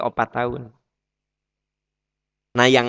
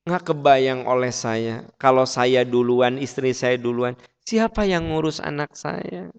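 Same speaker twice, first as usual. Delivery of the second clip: mild imitation of a weeping father; retold tearful plea. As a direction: plead sorrowfully, rising on the last question. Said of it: "Pak Aam nangis dia teh". (menirukan ayah memohon dengan sedih)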